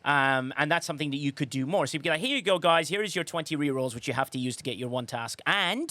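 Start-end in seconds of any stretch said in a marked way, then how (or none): 2.3-5.4 sugary, passive-aggressive handout line; mock generous sarcasm. The game handing players rerolls, dripping sarcasm. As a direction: offer it with a fake smile and a finger poke. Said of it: "hint the sarcasm there".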